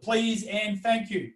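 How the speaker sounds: slow, courteous please and thank you; polite please and thank you. Shown as a demonstration. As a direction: say "Please and thank you" slowly and politely, every word careful. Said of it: "we wanna have manners".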